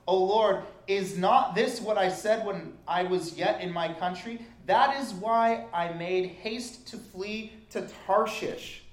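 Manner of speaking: loud, impassioned plea to the Lord; a prophet protesting, loud and earnest; fervent scripture reading. Acted. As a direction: cry it out to God, slowing at the end. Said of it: "I love when it says".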